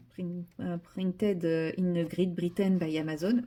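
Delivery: English read with a strong French accent; French-accented English, unhurried. Real, not acted. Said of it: "vous aimez mon accent".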